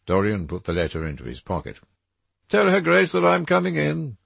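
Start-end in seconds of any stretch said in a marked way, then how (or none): 2.5-4.2 cold. A narrator's reading. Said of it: "he said coldly".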